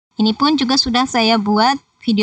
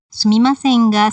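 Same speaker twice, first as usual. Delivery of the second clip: "sumimasen ga" with the ga held at the same height; level intonation on SUMIMASEN GA. Shown as a demonstration. Teacher showing learners the same pitch on "sumimasen ga", level intonation. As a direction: keep "ga" level with "sumimasen", no sudden drop. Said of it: "ini ketinggiannya sama".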